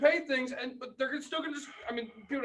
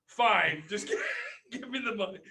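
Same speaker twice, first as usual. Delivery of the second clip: retold clerk caving, breaking into a laugh; retelling the clerk caving in, laughing; laughing give-in; 4 dB louder than usual.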